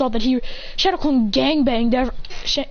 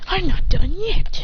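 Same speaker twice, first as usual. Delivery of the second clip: high, slow defiant cry; defiant fighter; 6 semitones higher, 3 dB louder, slower than usual. Acted. Fighter knocked into the wall, high slow defiance. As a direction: refuse to go down, drawing it out.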